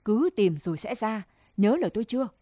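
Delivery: a mildly hard, cutting command; wife sternly warning her husband's lover, mildly sharp; sharp and firm. Acted. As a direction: drive the words home with mild steel. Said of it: "giọng đanh sắc".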